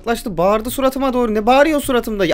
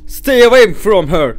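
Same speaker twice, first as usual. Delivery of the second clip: stern warning; 6 dB louder, slower than usual. Acted. Game character warns player.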